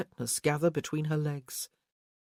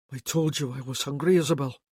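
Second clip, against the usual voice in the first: growled; 5 dB louder, faster than usual. A narrator's reading. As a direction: growl it out hungrily. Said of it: "he growled".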